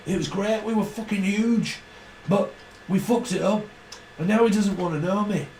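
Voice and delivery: lightly voiced Mancunian rock star moaning about his brother; a hint of a grumbling famous rock singer. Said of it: "Is it that singer?".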